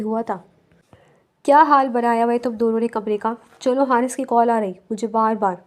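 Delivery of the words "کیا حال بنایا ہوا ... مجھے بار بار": hurried, raised voice. Acted. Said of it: "حدید نے جلدی سے کہا".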